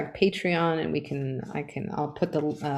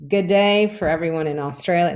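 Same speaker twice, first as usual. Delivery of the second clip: a light, hammed-up Aussie twang on "Good day"; mock Australian accent. Co-host greets Australian fans in a mock Australian accent. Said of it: "Crocodile Dundee?".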